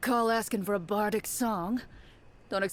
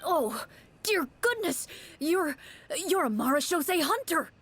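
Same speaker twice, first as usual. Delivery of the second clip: stunned to see a hunter standing there; startled recognition, rising; amazed; 5 semitones higher than usual. Acted.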